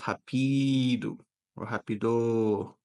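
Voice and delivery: "rapido" stressed on PI, then on DO; misplaced stress demo. Shown as a demonstration. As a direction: say "rapido" wrong as ra-PEE-do, ra-pi-DOH. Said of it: "instead of".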